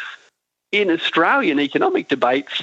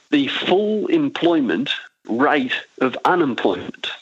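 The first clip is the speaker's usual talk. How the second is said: slow and deliberate. Shown as a demonstration. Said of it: "I'll say it slowly and I'll say it twice".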